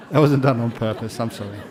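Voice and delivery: laughing apology. Real, not acted. Apologising while still laughing.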